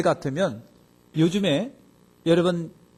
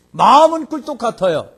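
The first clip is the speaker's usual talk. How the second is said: much louder and higher, falling off at the end; emphatic; 6 semitones higher, 9 dB louder than usual. Shown as a demonstration. Preacher booms the line to the congregation. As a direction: belt out the first half. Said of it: "repeated contrast line".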